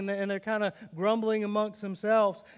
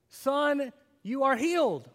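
higher, brighter guess at the words; preacher voicing the wrong line for the children; mock wrong line; 4 semitones higher, slower than usual. Shown as a demonstration. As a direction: offer the wrong answer with a lift.

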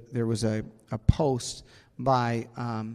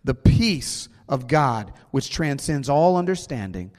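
preaching. Acted. Preaching scripture.

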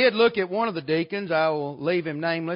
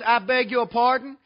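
higher-pitched mock affronted question; taken aback; 4 semitones higher, 4 dB louder than usual. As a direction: imitate a secretary's polite disbelief. Secretary reacting to rude caller.

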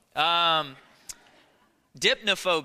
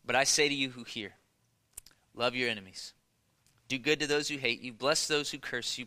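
lower, softer, measured Bible reading; scripture reading; 4 semitones lower, 4 dB quieter than usual. Acted. Preacher reads Luke six to congregation, hushed scripture reading. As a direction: read the verses out quietly and evenly.

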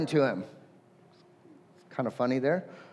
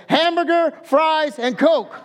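louder, higher, blurted in relief; desperate fallback order; 6 semitones higher, 3 dB louder, slower than usual. Retold or imitated. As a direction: fall back on the words he knows. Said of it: "he says".

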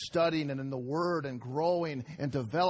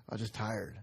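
tired, lower and softer, with a laugh; mock weary sigh; 5 semitones lower, 5 dB quieter than usual. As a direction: let it sag like you're worn out.

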